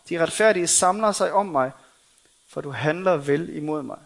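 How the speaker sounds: steady recitation of a lament; psalm reading. Acted. David in the cave crying to the Lord, earnest psalm reading. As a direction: read the psalm out as an earnest plea.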